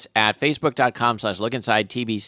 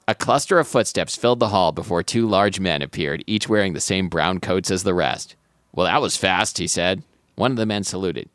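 story narration. Acted. Reads novel aloud.

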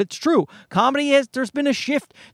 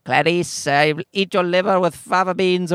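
Hannibal Lecter impression. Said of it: "Everyone did the Silence of the Lamb".

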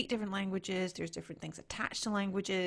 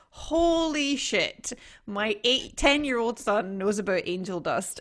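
louder, slow, stunned outburst; mock shocked parent; 4 semitones higher, 11 dB louder, slower than usual. Parent shocked by what her son knows, louder and slow. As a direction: play the parent caught off guard. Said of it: "and you're like".

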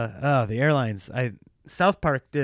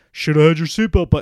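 mock scolding; 2 semitones higher, 8 dB louder than usual. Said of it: "and you're like".

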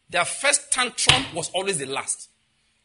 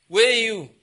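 louder, higher call "Where you?"; 4 semitones higher, 9 dB louder than usual. Acted. God summoning the disobedient one, loud call.

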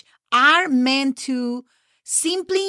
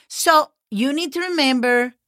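ordinary talk, nothing marked

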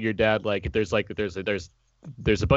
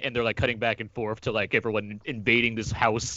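normal talking voice

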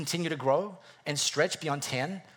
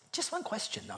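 mock suspicious; 6 semitones higher, 10 dB quieter than usual. Comic suspicious aside.

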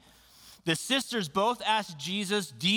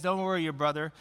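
low, slowing comfort; calm reassurance; 4 semitones lower than usual. Retold or imitated. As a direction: gently reassure the grieving sister. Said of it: "He just says".

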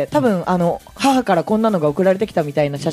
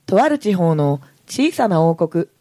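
story narration. Acted. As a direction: read it like a picture book opener.

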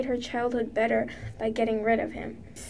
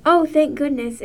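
exclaiming; 3 semitones higher, 7 dB louder than usual. A narrator's reading. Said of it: "exclaimed Sky".

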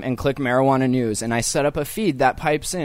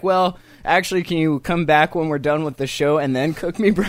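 mock polite request; 2 semitones higher than usual. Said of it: "I wasn't gonna be like".

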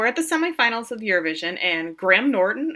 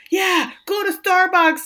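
much higher, louder, slow sneering jeer; mock taunting yell; 11 semitones higher, 6 dB louder, slower than usual. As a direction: drag it out, mocking the tourists. Reflection Lars joins the taunting.

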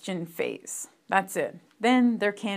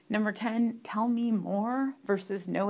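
ordinary talk, nothing marked

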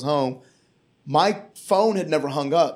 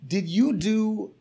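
lightly voiced cop; 4 semitones higher than usual. Cop in the back seat asking the comedian, higher voice. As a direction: play the friendly cop asking. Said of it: "He was like".

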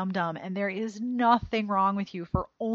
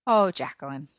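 near tears, voice catching; fighting back tears; choked up. Real, not acted. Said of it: "I'm already crying".

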